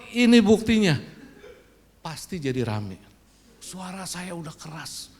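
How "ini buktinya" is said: loud, stubborn insisting; insistent. Retold or imitated. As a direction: insist loudly on the proof. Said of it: "saya pasti akan ngotot".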